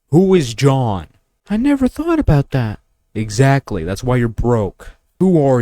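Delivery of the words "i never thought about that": much higher put-on voice, slightly louder, amazed; dumbfounded guy. Mocking a viewer stunned by the question, high put-on voice. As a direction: squeak it out like it never crossed your mind.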